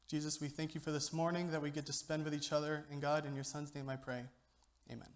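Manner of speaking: earnest, even-toned prayer; steady, reverent address to God. Real, not acted. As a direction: pray aloud for the congregation, softening toward the amen. Leads the opening prayer.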